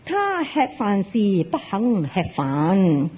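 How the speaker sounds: slow, drawn-out scriptural quote; solemn recitation. Acted. Zen master answering the disciple's question, slow solemn recitation. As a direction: recite it slowly, phrase by phrase.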